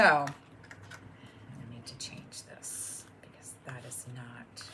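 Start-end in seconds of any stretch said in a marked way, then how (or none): 1.7-4.6 whispered under the breath; whispering. Real, not acted. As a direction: whisper it to yourself. Aside while adjusting something.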